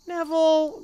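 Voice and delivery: loud, high shout of the name; exploding. Acted. Ron losing patience with Neville, loud high outburst. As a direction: blow up at him. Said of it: "Ron exploded".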